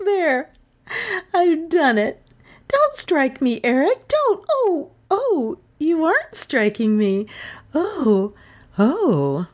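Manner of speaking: high voice broken by laughter; giddy laughing protest. A narrator's reading. Melissa laughing, mock-fearing Eric's blow.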